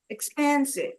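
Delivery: teacher's demo of "Expensive", stressed on PEN; stress on second syllable. Shown as a demonstration. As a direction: lean on the middle syllable of "Expensive". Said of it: "So second syllable".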